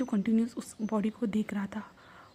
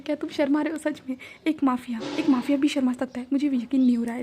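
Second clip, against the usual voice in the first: smiling tease; 2 semitones higher, 4 dB louder than usual. Acted. Wing teasing blushing mafia Wang, smiling and playful. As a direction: poke fun at his blushing with a smile. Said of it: "विंग एक smile करता है और कहता है".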